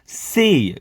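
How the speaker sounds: સે ending in a little y; slight y glide. Shown as a demonstration. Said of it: "યનો ઉચ્ચાર થોડો આવો જોઈએ".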